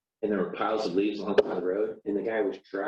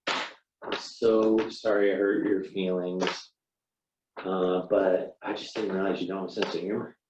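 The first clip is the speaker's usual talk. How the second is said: fake apology. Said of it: "not much of an apology".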